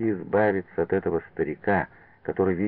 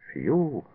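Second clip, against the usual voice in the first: whistle; 7 semitones higher than usual. A narrator's reading. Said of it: "присвистнул Лавутин".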